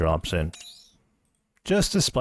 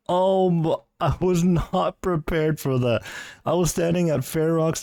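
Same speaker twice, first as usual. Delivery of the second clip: breathless excitement; 9 semitones higher than usual. Real, not acted. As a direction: still reeling from the win. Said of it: "that was my genuine reaction".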